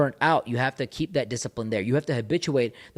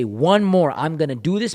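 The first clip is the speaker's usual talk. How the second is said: louder, higher, fierce self-push; psyching yourself up for one more rep; angry push; 3 semitones higher, 6 dB louder than usual. Shown as a demonstration. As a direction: grit through that last rep out loud. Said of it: "get angry and push. Say".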